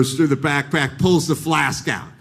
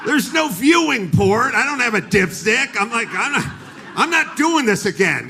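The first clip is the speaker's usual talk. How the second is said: frustrated self-talk while pouring out the flask; exasperated rant; 6 semitones higher than usual. Retold or imitated. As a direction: rant with half-laughing disbelief. Exasperated rant at the trash can.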